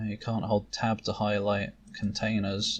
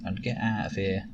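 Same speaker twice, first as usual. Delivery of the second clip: amused mentor. Acted. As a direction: lightly tease the young apprentice. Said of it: "Shanti looks amused".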